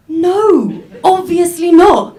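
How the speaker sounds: defensive schoolgirl. Retold or imitated. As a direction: deny it like an indignant teen girl. Voicing girls at school.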